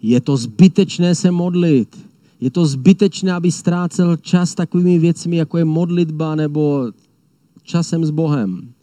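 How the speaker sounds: lightly voiced sneering accuser; the lion mocking those who pray, mildly taunting; taunting enemy lion. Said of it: "Říká nám".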